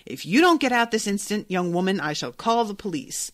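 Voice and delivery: mildly barked warning; barked threat. Acted. Shopkeeper threatens the customer with police, mildly barking. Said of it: "Mister Piper barked".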